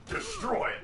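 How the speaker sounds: high, loud cry of condemnation; sudden high-pitched mock decree; mock zealous outburst. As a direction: burst out high like a zealot passing sentence. Mock verdict on heresy.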